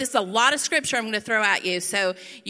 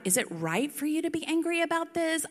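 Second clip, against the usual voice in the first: God with attitude; 6 semitones higher than usual. Acted. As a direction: ask it high, with mock attitude. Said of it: "God has attitude with me sometimes".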